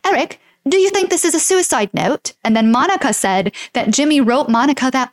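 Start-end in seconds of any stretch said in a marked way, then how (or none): 0.0-2.3 higher-pitched put-on English accent. Host voicing Monica asking Eric about the note, English accent. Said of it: "I can do an English accent".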